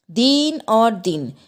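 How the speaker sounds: दीन with a long ई, दिन with a short इ, said slowly; vowel length contrast. Shown as a demonstration. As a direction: stretch दीन, clip दिन, slowly side by side. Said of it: "ये दोनों शब्द बोलने में एक जैसे". (दीन में लंबी ई, दिन में छोटी इ, धीरे-धीरे)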